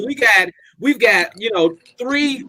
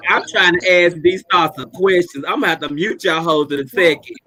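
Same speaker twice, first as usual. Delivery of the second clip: echoing tunnel. Real, not acted. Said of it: "you sound like you in a tunnel".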